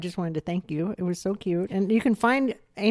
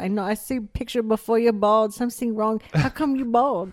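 mock Asian mother's accent, higher pitched; Asian mom's accent; 4 semitones higher than usual. Mom questioning her child's baldness, imitated Asian accent. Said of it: "And then she said".

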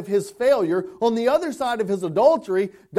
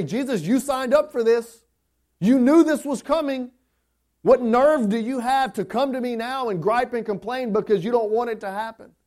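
mock rebuke; 3 semitones higher, 4 dB louder than usual. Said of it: "Does God say".

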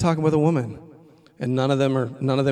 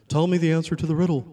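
higher, louder demand; 3 semitones higher, 4 dB louder than usual. Retold or imitated. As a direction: insist on the answer. Student grabbing his shirt, demanding.

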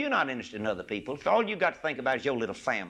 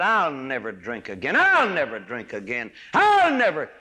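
rising to a louder cry; mock boast; 7 dB louder than usual. Preacher imitating a proud man's vow, swelling mock boast. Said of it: "a man ... said".

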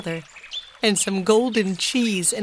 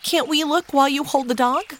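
anxious; 6 semitones higher than usual. A narrator's reading. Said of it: "asked Violet anxiously".

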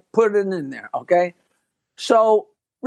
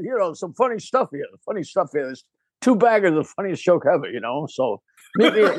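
Rodney Dangerfield impression; 3 semitones lower than usual. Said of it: "that impression is fantastic".

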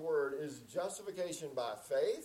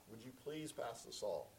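soft, lower, courteous asking; polite request; 4 semitones lower, 10 dB quieter than usual. Retold or imitated. Asking at Susan's family table to pass the salt, polite. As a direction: ask gently and politely, please unstressed in the flow. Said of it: "please was the polite way".

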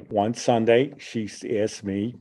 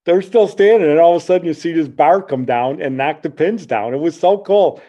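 excited; 7 semitones higher, 7 dB louder than usual. Real, not acted. Climax of the bowling story.

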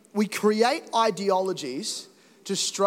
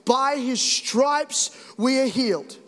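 solemn recitation; 3 semitones higher, slower than usual. Retold or imitated. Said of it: "my mum used to say this".

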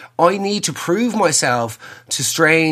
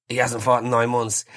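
unimpressed installer; 4 dB quieter than usual. Retold or imitated. Installer deadpan.

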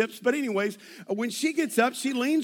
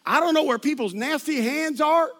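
louder, higher disgusted rant; mock disgusted complaint; 4 semitones higher, 4 dB louder than usual. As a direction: sound disgusted by strangers' hands. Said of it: "She's like".

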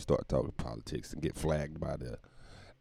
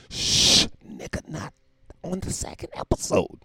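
whispered higher aside; hushed aside; 10 semitones higher than usual. Acted. Host hushing himself about politics, whispered aside. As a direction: hush yourself off the topic.

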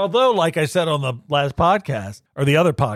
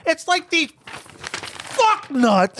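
high, slow, disgusted sneer; disgusted rant; 11 semitones higher, much slower than usual. Real, not acted. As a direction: drag it out with contempt. Ranting at radio people.

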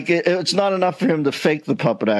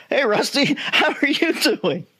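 put-on manly greeting, slow; mock-macho hello; 9 semitones higher than usual. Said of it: "Let me give you my man voice".

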